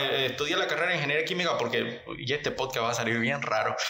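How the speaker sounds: hiccuping while talking; words broken by hiccups. Real, not acted. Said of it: "porque estamos chipando".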